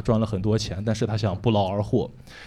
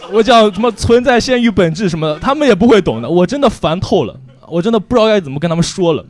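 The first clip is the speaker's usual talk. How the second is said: louder and higher, laughing through the frustration; exasperated laughing rant; 8 semitones higher, 8 dB louder than usual. Real, not acted. 跟观众吐槽弟弟妹妹不懂，又笑又烦. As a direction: vent it while cracking up.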